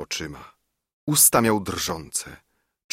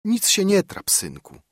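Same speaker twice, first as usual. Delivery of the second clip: smiling reassurance; 12 semitones higher than usual. A narrator's reading. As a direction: reassure with a smile in the voice. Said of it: "Mówiła to z uśmiechem".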